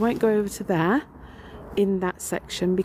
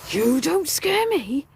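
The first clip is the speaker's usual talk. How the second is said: slow, higher defiant ghostly taunt; spirit's taunt; 6 semitones higher, slower than usual. Retold or imitated. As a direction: drag it out like a haunting spirit. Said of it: "looked at me and he said".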